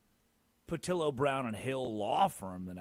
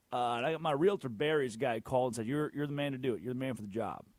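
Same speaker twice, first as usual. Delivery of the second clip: southern code switch. Acted. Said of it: "a southern code switch when I call".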